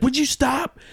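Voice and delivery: high, rising mock rebuke; mock scolding. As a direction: pitch it high like a put-on scolding. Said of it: "he's like".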